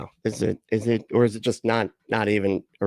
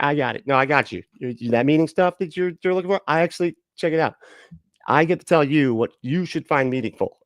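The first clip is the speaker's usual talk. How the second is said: mock charlatan; 2 semitones higher than usual. Mocking a charlatan promising followers the meaning of life. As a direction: ham up a smug guru selling meaning. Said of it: "And they're like".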